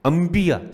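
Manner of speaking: انبیاء said high, "am-BI-ya", pressing the b; with shad. Shown as a demonstration. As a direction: stress the b of انبیاء, pronounced "ambiya". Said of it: "جس میں بے پر شد ہے".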